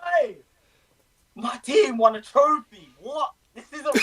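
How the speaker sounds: high, loud disbelieving shout; ecstatic disbelief. Real, not acted. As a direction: yell it out in giddy disbelief. Disbelief at winning trophy.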